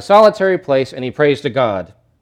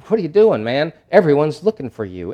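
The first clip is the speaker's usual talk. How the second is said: annoyed; 2 semitones higher than usual. Retold or imitated. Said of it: "you can just hear the annoyance in their voices".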